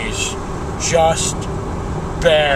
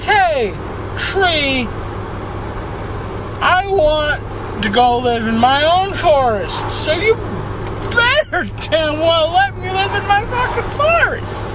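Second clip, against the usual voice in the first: ranting bear; 5 semitones higher than usual. Acted. Bear rants at the tree.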